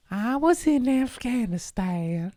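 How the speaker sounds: slow, high, drawn-out dramatic reading; lightly hammed-up soldier voice; mock dramatic soldier. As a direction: ham up a war-veteran line. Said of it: "I don't know why I did that. That sounds very rude".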